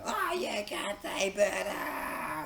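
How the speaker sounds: high, drawn-out mocking squeal; mock outrage. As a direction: squeal it like a scandalised objector. Mimics objection to the word bird.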